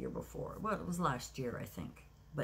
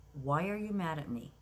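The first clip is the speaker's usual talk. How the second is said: firm, not angry; 2 semitones higher, 4 dB louder than usual. Retold or imitated. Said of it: "In a firm way, not angry".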